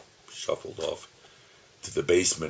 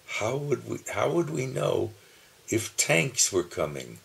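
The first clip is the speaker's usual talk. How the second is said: lightly voiced small child, higher and worried; child asking daddy; 7 semitones higher, 4 dB louder than usual. As a small boy asking daddy about tanks, lightly childlike. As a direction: ask it like a little boy. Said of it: "asking Daddy".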